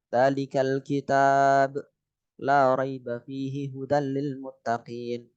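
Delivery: slow recitation, pause after kitab; recite, stopping at the sign; recited with pause. Shown as a demonstration. Teacher showing a waqf stop in Al-Baqarah, slow recitation. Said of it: "Kan bisa berhenti di kitab".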